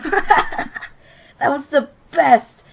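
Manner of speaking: laughing through a cruel boast; gloating laugh. Acted. Bully gloating to his gang, laughing. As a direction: cackle it out, pleased with yourself.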